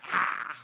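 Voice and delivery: imitated angry cat noise; cat-like snarl. Dad imitating his possessive child, cat-like snarl. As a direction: spit out a breathy cat warning. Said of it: "He's like a cat".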